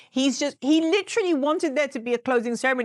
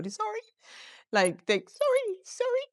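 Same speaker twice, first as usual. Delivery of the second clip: mock apology; 9 semitones higher, 3 dB quieter than usual. Apologizing to tuna.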